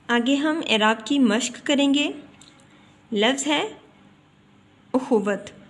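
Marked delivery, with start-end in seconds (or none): 4.9-5.7 उखुवत begun with a short u; correct pronunciation. Shown as a demonstration. Teacher introduces the word to learners, correctly pronounced उखुवत with initial u. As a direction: say उखुवत with u on the alif. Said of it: "सही इसका तलफ़ुज़ है, वो है उखुवत".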